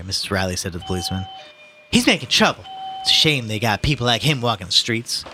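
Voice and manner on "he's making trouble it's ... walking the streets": mother voice. Acted. Mrs Reilly voiced in reading.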